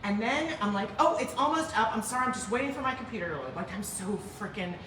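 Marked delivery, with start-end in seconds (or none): 1.0-3.5 quick, softer, eager-to-please apology; a touch of gushing apology; overly apologetic. Retold or imitated. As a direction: apologize too much, hurrying through it. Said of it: "apologetic. It's, like, gross".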